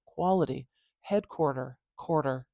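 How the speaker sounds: "Quality, headquarter quarter" with each middle t tapped like a quick d. Shown as a demonstration. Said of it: "almost like a really quick D sound".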